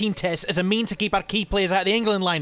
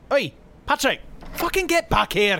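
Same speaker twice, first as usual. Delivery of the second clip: shouting after him; 4 semitones higher than usual. Acted. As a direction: yell at him to come back. Shouting after fleeing colleague.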